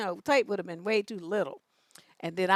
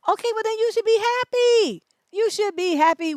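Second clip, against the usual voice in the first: higher, louder mock-cheery sarcasm; sarcastic retort; 11 semitones higher, 7 dB louder than usual. Telling the man off about the white girl, sarcastic and loud. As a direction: rub it in with fake cheer. Mocking him, sarcastic reply.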